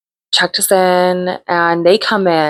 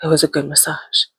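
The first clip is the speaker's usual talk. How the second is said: lightly voiced nervous man; 4 dB quieter, faster than usual. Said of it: "He was like".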